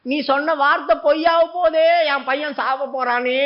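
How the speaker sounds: mock wail of a desperate mother; a distraught mother's half-acted lament; imitating a crying plea. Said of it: "அப்படி சொல்லி அழுதாங்க".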